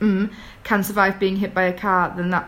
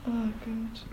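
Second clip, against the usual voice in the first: muffled, speaking into a scarf; talking into scarf; 5 dB quieter than usual. Real, not acted. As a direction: voice muffled by fabric. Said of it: "I'm speaking into my scarf".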